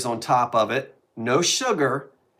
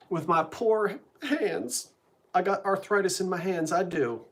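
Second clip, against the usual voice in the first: mock self-pity; 5 semitones higher than usual. Excusing a typing slip with arthritis, mock self-pity. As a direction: lay on the pity, half-joking. Mock plea for sympathy over hands.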